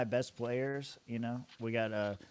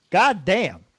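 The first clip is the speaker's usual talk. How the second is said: frustrated curse; 5 semitones higher, 9 dB louder than usual. Real, not acted. Frustrated at his player.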